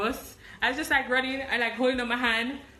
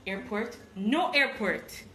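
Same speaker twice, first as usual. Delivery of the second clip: truck man; slower than usual. Retold or imitated. Truck man answering in broken English.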